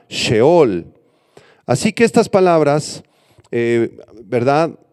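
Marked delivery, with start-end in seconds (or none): 0.1-0.9 "Sheol" accented on its final syllable; stress on last syllable. Shown as a demonstration. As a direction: lean on the end of "Sheol". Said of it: "con acento en la A". ("Sheol" acentuado en la última sílaba)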